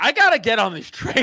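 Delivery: loud, frantic, urgent speech said out loud. Retelling a moment waiting for a train, retelling talking out loud. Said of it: "verbally out loud, audibly being like".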